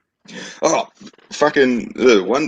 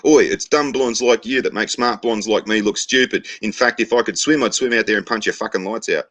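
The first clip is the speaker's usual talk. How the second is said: mock-angry blonde, pitched up at first; lightly acted indignant yell over a fence; pissed off; 5 semitones higher than usual. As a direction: tell someone off in a joke. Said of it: "that pissed her off so much".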